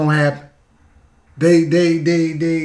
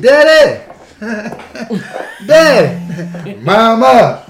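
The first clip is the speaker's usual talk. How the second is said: put-on child role; 3 semitones higher, 6 dB louder, much slower than usual. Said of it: "kids that look like me now".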